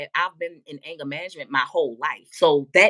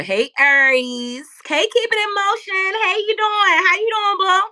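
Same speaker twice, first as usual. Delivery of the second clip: high-pitched greeting; 13 semitones higher, 7 dB louder than usual. Real, not acted. Greeting a viewer joining the live.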